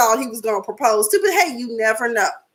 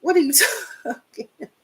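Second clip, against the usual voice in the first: high, fast, laughing retort; laughing disbelief; 7 semitones higher, 3 dB quieter, faster than usual. Retold or imitated. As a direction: laugh it out incredulously.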